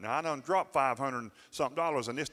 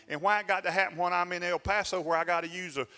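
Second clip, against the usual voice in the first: retold frustrated rant; 4 semitones higher than usual. Preacher mimicking his angry self over the repair bill. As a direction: vent like a man fed up on vacation. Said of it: "I'm upset. I'm mad. I'm angry".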